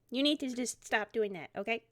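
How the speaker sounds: put-on earnest scolding boy. Rye scolds the phantom thief.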